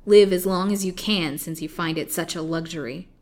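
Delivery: loud start, settling into scorn; contemptuous curse. Acted. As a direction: grant it grudgingly, like a curse. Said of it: "throwing life at her poor victim with a curse".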